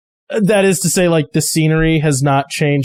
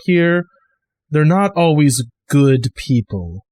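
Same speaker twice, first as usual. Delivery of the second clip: Maul's ominous warning; slower than usual. Acted. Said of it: "She looks at you and goes".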